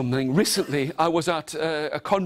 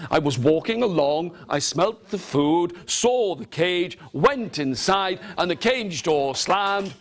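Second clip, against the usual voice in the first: tiger's account. Acted. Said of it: "The tiger said".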